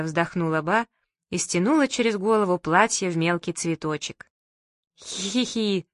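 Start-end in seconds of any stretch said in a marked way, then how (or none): 5.0-5.9 giggling. A narrator's reading. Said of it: "захихикали мы".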